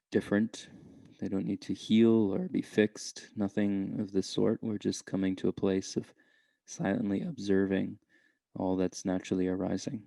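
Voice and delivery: unhurried meditation guide with long pauses; calm, measured meditation voice; guided meditation. Real, not acted. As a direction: gently lead listeners inward, leaving space between phrases.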